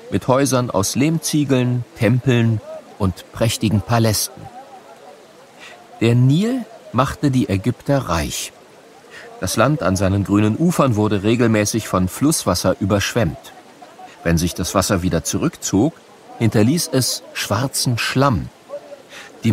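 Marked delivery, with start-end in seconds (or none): none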